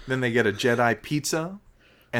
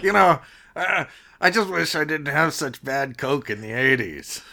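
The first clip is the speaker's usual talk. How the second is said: parody Harrison Ford; 2 semitones higher than usual. Pretend. Parody of aging Han actor.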